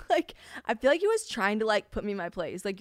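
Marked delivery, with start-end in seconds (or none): none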